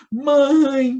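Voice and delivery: put-on child's high, loud, tearful, long-held crying call. Retelling being lost as a child, answering the priest: imitating own childhood crying. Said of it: "E eu chorando".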